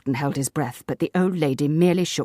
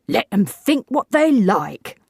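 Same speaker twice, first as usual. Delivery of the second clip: slow, louder reckless defiance; 7 semitones higher, 6 dB louder, slower than usual. A narrator's reading. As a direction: Davis defies what people think, recklessly loud. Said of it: "said Mister Davis recklessly".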